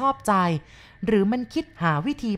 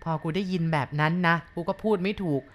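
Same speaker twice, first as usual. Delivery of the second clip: ordinary delivery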